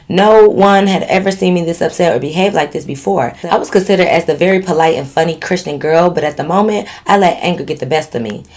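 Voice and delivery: measured storytelling read; recounting a written story; letter read aloud. A narrator's reading. Reads out a listener's letter.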